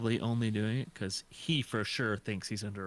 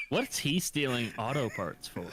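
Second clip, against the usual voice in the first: usual speaking voice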